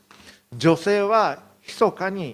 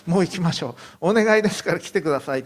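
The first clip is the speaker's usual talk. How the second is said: fast, pressing plea to hurry; urgent pleading; 3 semitones higher, 4 dB louder, faster than usual. Retold or imitated. Jairus urges Jesus to leave now, fast and pleading. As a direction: rush him along, begging.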